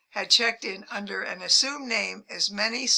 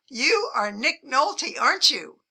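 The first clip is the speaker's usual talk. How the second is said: bold and proud; 4 semitones higher, 4 dB louder than usual. Retold or imitated. Fan from coach confronting the husband, boldly and proudly. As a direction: insist on it proudly, taking your time. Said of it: "she said boldly and proudly".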